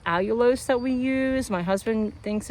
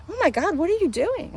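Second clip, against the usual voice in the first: high-pitched mock disbelief; scandalized retold question; shocked coworker; 10 semitones higher than usual. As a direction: imitate an appalled onlooker, pitched way up.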